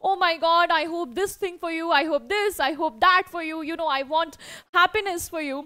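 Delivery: mildly excited well-wishing, pitched a little up. Acted. Teacher voices an excited man wishing his friend happiness, mildly excited. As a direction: act out a touch of delighted excitement. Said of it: "also shows his excitement".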